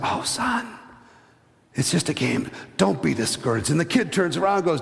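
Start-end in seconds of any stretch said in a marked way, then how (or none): 0.0-3.7 gentle, close, hushed whisper. Telling a story, voicing a dad speaking to his son: whispering. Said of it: "he whispers in his ear".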